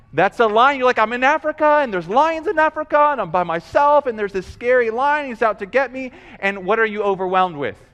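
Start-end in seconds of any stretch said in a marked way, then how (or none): 1.0-6.1 higher, louder fretting, lightly acted; mock panic. Preacher voices a listener alone with lions, mock-frightened. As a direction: act out a mild panic. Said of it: "kind of overwhelmed with this fear".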